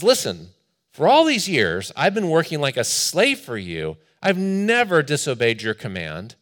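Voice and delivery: elder son confronting his father, mildly hurt and angry; mildly incensed son. Acted. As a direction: let the grievance build toward the father. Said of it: "he is incensed".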